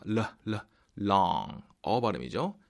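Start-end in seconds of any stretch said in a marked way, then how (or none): 0.0-1.6 "르, 르" with the tongue touching, into "long"; tongue-touch L demo. Shown as a demonstration. Teacher showing learners the tongue touches, L demo in "long". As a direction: say "long" as "lahng" after isolated L sounds. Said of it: "그 다음에 혀가 답니다".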